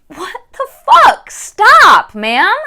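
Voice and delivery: high, loud exasperated outburst; irritated. Retold or imitated. Reader reacting to the third escape attempt, irritated. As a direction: act out fed-up disbelief, pitch way up. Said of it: "I was so irritated".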